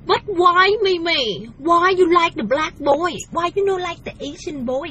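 teasing high voice. Acted. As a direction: needle Mimi about boys.

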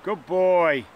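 loud drawn-out praise, then high call; praising and calling. Real, not acted. Trainer coaxing his dog in, praise rising to a call. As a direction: praise loudly, then lift into a quick call.

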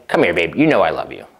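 steady her, unbothered and tender; calm and reassuring. Retold or imitated. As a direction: gently reassure his girlfriend. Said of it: "being non-reactive is simply saying".

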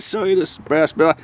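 talking around a flashlight in mouth; words muffled by flashlight in mouth. Real, not acted. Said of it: "hold the flashlight in my mouth".

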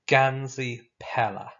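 slow, clear Irish phrase for the class; slow model phrase. Shown as a demonstration. Teacher modelling the Irish for football jersey slowly. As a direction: sound it out slowly. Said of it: "Try that with me".

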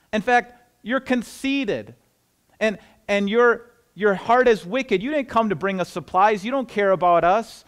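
acted, understated reproach; accusing older brother. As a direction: lay out the charges against a younger brother. Eliab accuses David, acted.

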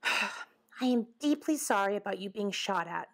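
gentle, understated courtesy; polite apology. Acted. Madison apologizing to the woodchuck, polite. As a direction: offer it politely and evenly. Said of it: "told him politely".

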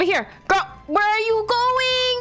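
high squealed protest; exasperated call. Real, not acted. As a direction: wail after your partner as they wander off. Calls after wandering partner.

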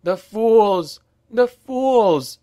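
high, loud sobbing cry. A narrator's reading. Franz despairs at fleeing slaves, sobbing. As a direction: sob it out in anguish. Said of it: "sobbed Franz".

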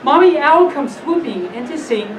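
lilting rhymed read-aloud; measured storyteller with swooping pitch; bedtime story reading. Acted. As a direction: read it gently like a picture book.

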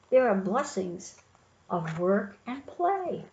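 storybook read-aloud, measured and projected; story narration. A narrator's reading. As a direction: read the picture book out to young children.

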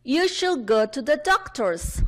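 slow, deliberate classroom model sentence; unhurried teacher reading; read-along model. Shown as a demonstration. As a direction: stretch each word so learners can repeat. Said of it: "vamos todos a leer nuestras oraciones".

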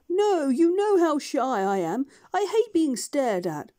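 a shy beast pleading not to be stared at; shy, nearly crying. Acted. Push-Me-Pull-You refusing the monkeys, shy and near tears. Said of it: "And he almost began to cry".

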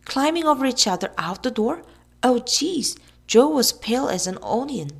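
high, gleeful retelling; high-pitched amused voice; laughing. A narrator's reading. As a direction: gloat with mild amusement.

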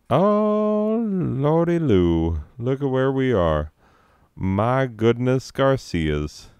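high, slow hammed-up wonder; mock amazement. Gamer marvels at the new world, high and slow hammed-up wonder. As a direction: gush over the new world like a prim old lady.

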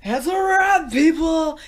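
high, loud imitated cheer; imitating a cheer. Vlogger imitating the YouTuber ending the series, high loud cheer. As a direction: call it out like he's wrapping a shoot. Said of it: "he's like".

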